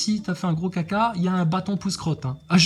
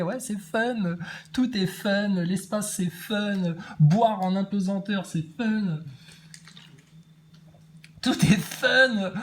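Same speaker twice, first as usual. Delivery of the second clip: mock fun; 2 semitones higher, slower than usual. Mocking astronaut's fun attitude.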